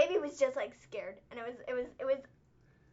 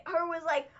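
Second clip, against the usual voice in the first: ordinary talk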